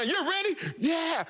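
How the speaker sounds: high shouted call and answer; high hype yell between coach and rookie. Acted. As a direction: pump him up with a shout.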